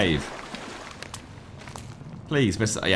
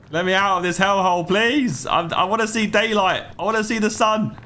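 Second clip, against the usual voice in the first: raised, begging to be let out; desperate pleading; 4 semitones higher than usual. Real, not acted. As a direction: plead with the game to escape. Trapped in cave, begging to escape.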